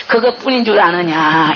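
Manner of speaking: slow, grave divine question; Jesus answers the weeping woman, slow and grave. Retold or imitated. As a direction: ask it low and slow, like the Lord. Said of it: "이래요".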